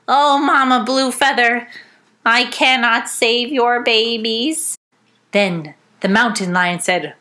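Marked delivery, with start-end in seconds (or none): 0.1-4.8 sad rabbit. Acted. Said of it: "Rabbit said sadly".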